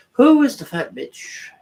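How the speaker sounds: high mock voice on the question; mocking falsetto. Streamer mocking the chat question in a high voice. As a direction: squeak the question back at chat.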